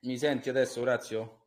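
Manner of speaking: faint, distant caller; far from mic. Real, not acted. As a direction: voice drifting away from the phone. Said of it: "avvicinati perché non ti sento bene".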